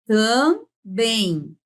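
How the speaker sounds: TAMBÉM split as tam, then beim; syllable by syllable. Shown as a demonstration. Teacher showing how it is pronounced, syllables drawn apart. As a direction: stretch each half of Também. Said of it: "Como é que a gente pronuncia".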